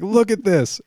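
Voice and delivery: dad showing the damage, angrily; mock angry dad. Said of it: "He's like".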